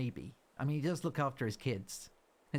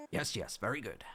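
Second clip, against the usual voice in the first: whispery raccoon boss; 3 semitones lower than usual. Pretend. Voicing Tom Nook.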